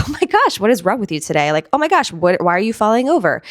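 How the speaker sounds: mock exasperation with laughter; giggly self-teasing. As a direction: tease yourself through a giggle. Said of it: "even giggling at themselves".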